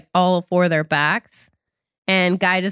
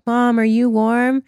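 put-on very old faint voice; 3 semitones higher than usual. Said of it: "And they're like".

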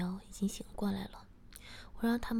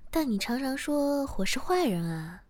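louder, higher teasing retort; teasing, amused; 5 semitones higher, 7 dB louder than usual. A narrator's reading. He teases Shiya about calling him bad, amused. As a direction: tease her with a touch of amusement. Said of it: "我笑着说".

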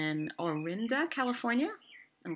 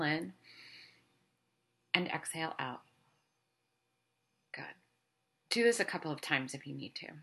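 calm meditative tone. Acted. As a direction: gently guide them to let go. Leads a guided meditation.

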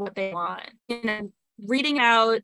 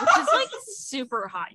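laughing; 4 semitones higher than usual. Real, not acted. Laughing about Italian dirty talk.

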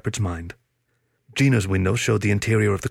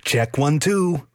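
quipped; 6 semitones higher, much slower than usual. Acted. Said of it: "Richard quipped".

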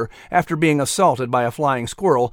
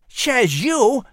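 cheeky squirrel retort; 9 semitones higher than usual. Acted.

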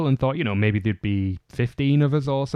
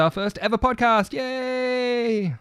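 excited cheer; 12 semitones higher, slower than usual. Real, not acted. Cheering first ever podcast.

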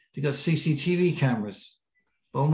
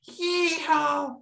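whooping yell. Retold or imitated. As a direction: let rip a wild yeehaw mid-air. Friend whoops mid-jump.

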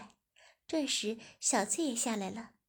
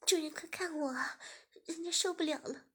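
higher, breathless begging; pleading young woman; 6 semitones higher than usual. Acted. Shiya begging her master, higher. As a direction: beg up high.

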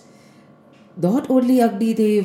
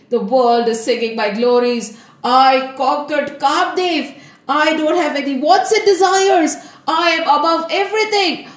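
boasting; 4 semitones higher than usual. Acted. Narad boasts to Vishnu.

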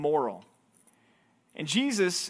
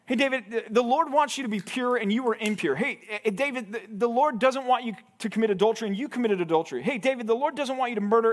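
higher-pitched mock telling-off; mock scolding; 4 semitones higher than usual. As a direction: imitate a blunt accuser listing offences. Hypothetical blunt scolding of David.

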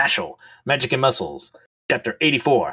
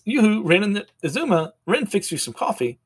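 sing-song yoo-hoo; 8 semitones higher than usual. Acted.

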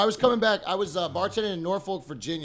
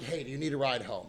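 soft, casual, harmless question; innocent offer; 3 semitones lower, 7 dB quieter than usual. Retold or imitated. Driver offering a walking girl a ride, soft innocent offer. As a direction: offer it gently with nothing behind it. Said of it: "it was completely innocent".

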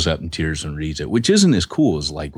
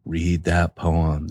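slow, lower nagging little voice; nagging conscience voice; 3 semitones lower, much slower than usual. Retold or imitated. The speaker mimicking the Little Rascals conscience, slow nagging voice. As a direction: drag it out like a conscience that won't quit. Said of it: "that kinda nagging voice in the back".

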